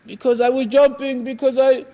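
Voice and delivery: imitated sheepish kid; lightly voiced child owning up; child's reply. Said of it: "they're gonna be crying".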